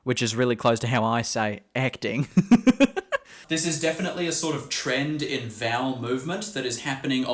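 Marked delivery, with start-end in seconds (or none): 2.3-3.2 a loud, high laugh at her own story; high burst of laughter. Real, not acted. Teacher laughing at the accent mix-up, loud high laugh.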